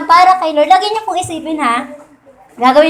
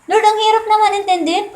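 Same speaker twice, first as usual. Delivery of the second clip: higher, whining plea to God; a raised, pleading sigh of a prayer; pleading prayer to Lord; 5 semitones higher than usual. Acted. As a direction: complain to the Lord like a tired believer. Acting out a complaining prayer.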